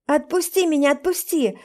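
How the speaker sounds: panicked shout, fading; frantic yell. Acted. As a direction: yell at him to release you. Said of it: "Ору".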